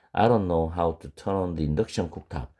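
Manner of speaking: 예문을 아주 천천히 또박또박; 학생들이 따라 하도록 천천히 읽기; slow model reading. Shown as a demonstration. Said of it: "slow model sentence read". (아주 느린 예문 낭독)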